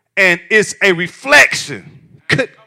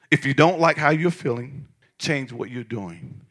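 softer repeat; 4 semitones lower, 6 dB quieter than usual. Shown as a demonstration. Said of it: "I'm gonna say it again".

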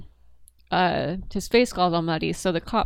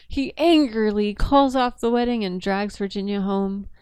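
newscaster voice. Acted.

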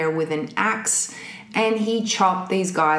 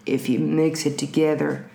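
calm psychopath; 4 semitones lower than usual. Acted. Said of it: "Keep going".

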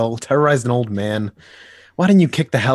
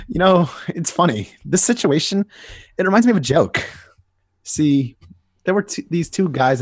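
amused; 6 semitones higher, 3 dB louder than usual. Acted. Joker starts joke.

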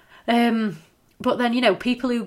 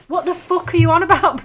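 higher and louder, baffled shout; incredulous outburst; 9 semitones higher, 8 dB louder than usual. Retold or imitated. Viewer shouting at Bridget Jones in disbelief, loud. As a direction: throw it at her in disbelief. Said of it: "you watch it now and you're like".

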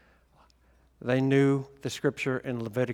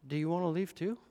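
calm; 3 semitones higher, 6 dB quieter than usual. Retold or imitated.

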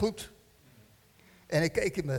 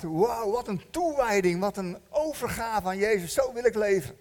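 raised, wowed exclamation; admiring enthusiasm; 2 semitones higher than usual. Acted. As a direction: play up being impressed by such devotion. Enthusiastic reaction to reading about devotion. (bewonderend enthousiast)

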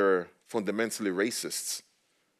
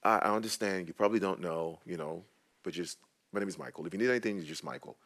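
calm, not angry; faster than usual. Retold or imitated. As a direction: gently correct someone without blame. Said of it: "I wasn't angry".

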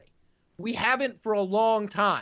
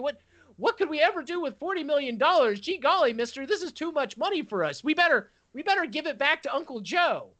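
put-on higher gee-golly innocent kid voice, lightly done; wholesome 1950s kid; 4 semitones higher than usual. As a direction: play dumb like a naive fifties kid. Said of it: "they're like".

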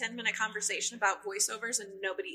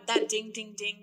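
cheery ding. Shown as a demonstration. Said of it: "too cheery".

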